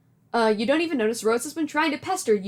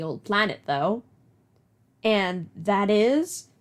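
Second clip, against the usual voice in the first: Nana voice. Acted. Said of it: "Do you like my Nana voice?".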